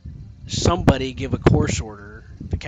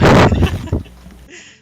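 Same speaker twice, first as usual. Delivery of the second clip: loud, high burst of laughter; sudden high cackle; 11 dB louder than usual. Real, not acted. Laughing at own story.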